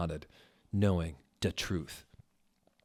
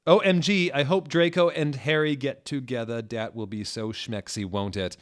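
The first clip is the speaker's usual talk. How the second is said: high, loud squealing fan voice; gushing fangirl; 3 semitones higher, 5 dB louder than usual. Acted. Reader voicing a gushing fan author note. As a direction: squeal it like an excited teen fan.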